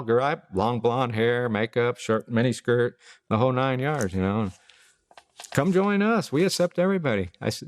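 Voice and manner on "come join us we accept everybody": much higher, bright welcoming voice; high, eager church greeter; welcoming pastor. Retold or imitated. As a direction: invite them in gladly.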